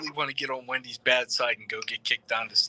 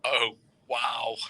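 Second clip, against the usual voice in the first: mock offended; 9 semitones higher than usual. Mock offense at being snubbed.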